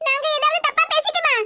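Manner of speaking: taken aback and anxious; alarmed concern. Acted. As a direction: ask in sudden worry, pitch jumping up. Alarmed at sudden crying.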